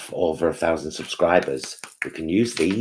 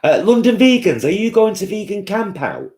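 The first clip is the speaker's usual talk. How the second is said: much higher and louder viewer voice; high excited read; 7 dB louder than usual. Pretend. Vlogger reading a fan question in a high, loud voice. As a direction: squeal the question out.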